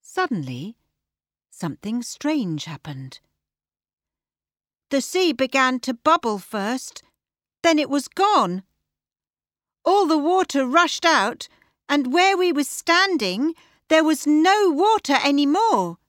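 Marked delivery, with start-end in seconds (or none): 4.9-16.0 put-on high, louder girl's voice; young Tilly speaking. Tilly tells how the sea rushed out, high girlish voice. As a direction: tell it as a girl, pitched well up. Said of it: "Tilly said".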